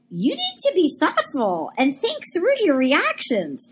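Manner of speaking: slow, sing-song scolding imitation; mock-earnest telling-off, drawn out; mock lecture. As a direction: lecture them with exaggerated, swooping emphasis. Mock lecture quoting a man.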